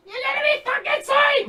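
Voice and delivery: high, loud outraged yell; explosive, high-pitched angry tirade; furious shout. Acted. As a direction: go off at them, screaming. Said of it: "She starts going off".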